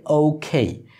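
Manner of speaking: "ওকে" as oh-khei, two diphthongs; English pronunciation. Shown as a demonstration. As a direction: glide both vowels in "ওকে". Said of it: "আরেকটি উচ্চারণ". ("ওকে" ইংরেজি ধাঁচে ওউ-খেই)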